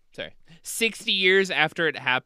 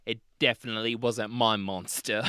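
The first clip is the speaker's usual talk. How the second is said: testy Australian witness, slightly put on; reply testily in a rough Australian accent; bad Australian accent; 4 semitones lower than usual. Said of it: "there will be bad Australian accents".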